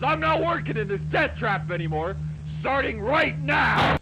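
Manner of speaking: hammed-up furious exit; mock angry quitting.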